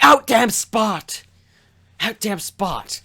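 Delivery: high, slow, hammed-up cry; frantic exclamation. Lady Macbeth sleepwalking with bloody hands, frantic exclamation. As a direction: draw each word out in mock madness.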